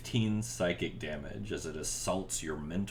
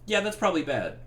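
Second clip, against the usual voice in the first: laughing through the line; amused, voice breaking into laughter; 13 semitones higher, 7 dB louder than usual. Acted. Voicing player character's reaction.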